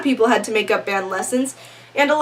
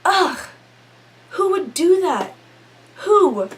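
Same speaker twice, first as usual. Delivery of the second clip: 1 mock whimper; 5 semitones higher than usual. Distressed whine about teacher.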